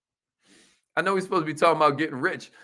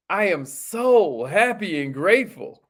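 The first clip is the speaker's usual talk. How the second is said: sincere affirmation. Shown as a demonstration. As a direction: lead the affirmation gently. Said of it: "Repeat after me".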